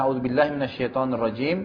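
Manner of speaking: even, measured opening recitation; Arabic recitation. Real, not acted. Preacher opening a Quran reading, reciting. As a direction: recite the Arabic formula evenly. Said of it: "Baik, saya bacakan".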